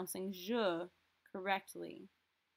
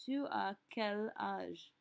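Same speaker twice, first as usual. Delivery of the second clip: slow, careful "Tu as quel âge?" with "tu" leading; slow model phrase. Shown as a demonstration. Teacher slowly modelling the question for students. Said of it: "we're going to ask".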